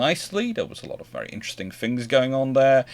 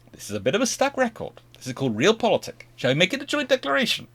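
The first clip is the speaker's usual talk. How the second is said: quick, high-pitched coaxing; mock exasperated persuasion; 11 semitones higher, faster than usual. British pressing Americans for joint declaration, exasperated coaxing. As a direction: hurry through a weary repeat plea. British pleading again in acted argument.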